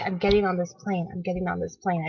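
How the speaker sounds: soft, resolute self-talk; murmured to herself, determined; quiet determined inner voice. Retold or imitated. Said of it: "in my mind, I was like".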